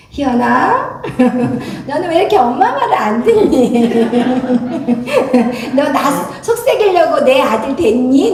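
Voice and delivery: laughing reproach to a stubborn son; laughing while scolding. Retold or imitated. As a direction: tease the son through giggles. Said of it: "웃으면서 풀어주면서".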